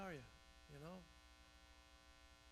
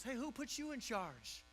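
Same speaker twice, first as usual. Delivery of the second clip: a hint of grumbling crowd, higher; mock complaining; 4 semitones higher than usual. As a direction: sneer at the new boss. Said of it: "they're complaining about Moses".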